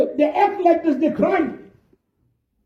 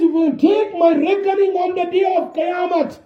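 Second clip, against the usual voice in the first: pleading cry; 2 semitones higher than usual. Retold or imitated. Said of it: "He says".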